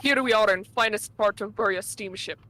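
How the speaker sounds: put-on thick Russian accent, dropped articles. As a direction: play a gruff Russian steward. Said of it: "practiced British accents just to voice the Russian characters".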